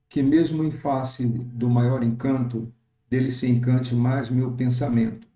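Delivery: slow verse read for counting; slow, counted verse; slow scansion. Shown as a demonstration. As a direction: stretch each syllable to count it. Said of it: "nós temos aqui a contagem".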